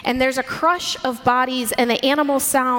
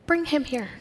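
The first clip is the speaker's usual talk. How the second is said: gently spoken invitation; gentle; 4 semitones higher, 4 dB quieter than usual. Shown as a demonstration. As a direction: say it kindly, as a welcome. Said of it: "read these stories with a gentleness".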